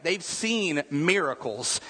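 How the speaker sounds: slow, weighty. Shown as a demonstration. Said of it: "repeated for emphasis".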